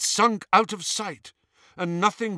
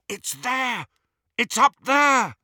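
high, excited shout building louder; excited cry; 9 semitones higher, 5 dB louder than usual. A narrator's reading. Harry spotting the cup for his friends, excited high cry. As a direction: call out the find, voice jumping up high. Boy spots the hidden cup.

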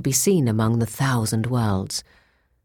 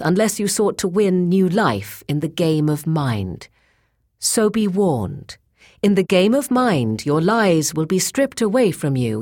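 stern warning; 4 semitones higher than usual. Acted. Wisdom warns the cyborg solemnly.

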